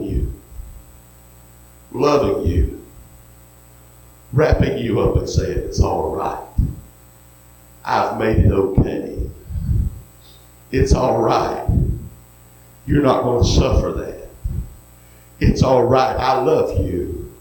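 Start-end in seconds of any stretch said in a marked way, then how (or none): 5.6-17.3 tender reassurance. Acted. Preacher voices Jesus comforting listener.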